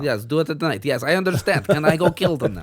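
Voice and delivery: put-on Russian accent. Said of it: "doing Russian accents".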